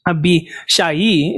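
Abishai said the Hebrew way, ending in a separate "ee"; Hebrew pronunciation. Shown as a demonstration. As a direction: draw out the end of Abishai as "sha-ee". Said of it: "how you would pronounce it in Hebrew".

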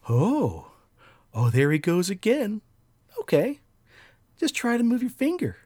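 high, loud mocking encouragement; taunting dream voice. Voice goading him to move his finger, high mocking cheer. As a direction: egg him on in a high, jeering voice. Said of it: "I hear this fucking voice again".

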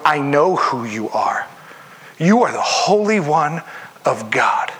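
a demon trembling before its master; terrified enemy. Retold or imitated. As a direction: confess it like a cornered, trembling foe. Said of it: "This is a terrified enemy going".

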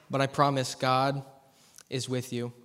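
low, softening, unhurried promise; gentle reassurance. Real, not acted. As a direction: reassure them, dropping softly at the end. Preacher reassures suffering listeners.

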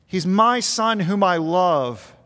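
slow declaration with weight on "my"; stress on MY. Retold or imitated. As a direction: draw the words out, leaning on "my" with a falling close. God claiming his beloved Son.

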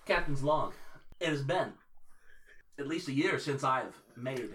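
halting captain's log delivery with long pauses; starship captain. Acted. Starship captain confiding a constipation problem to his log, halting mock-serious delivery.

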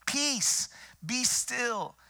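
high, loud command to the storm; Jesus rebuking the wind, loud and high; commanding shout. Acted. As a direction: call out the command with authority.

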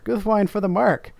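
high, ringing war cry; rally the riders; battle cry. Retold or imitated. Reader voicing Éomer's cry, high. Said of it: "cried Éomer".

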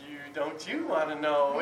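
teasing evasion. Retold or imitated. Uncle dodging niece's question.

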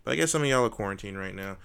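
lightly hammed-up showman announcer; ringmaster. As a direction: welcome the crowd like a ringmaster. Leads outro like announcer.

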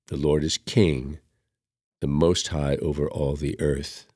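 calm, measured recited psalm with refrain; psalm recitation. Acted. Reader reciting the psalm at Mass, reverent recitation. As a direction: intone the psalm gently.

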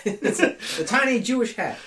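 high pitched, laughing while speaking; giggling through the words. Real, not acted. Laughing at own joke.

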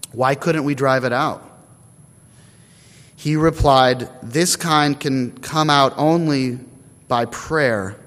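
emphatic, measured Bible reading; scripture reading. A narrator's reading. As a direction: read the passage out clearly to the congregation, phrase by phrase. Reads scripture aloud before preaching.

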